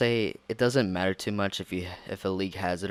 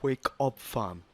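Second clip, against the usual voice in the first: squeaky puppet voice; 4 semitones higher, slower than usual. Acted. Puppet voice waking Sock.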